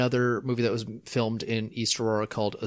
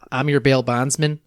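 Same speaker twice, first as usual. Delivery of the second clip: Robert Forster impression; 4 dB louder than usual. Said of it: "if you picture, like, Robert Forster".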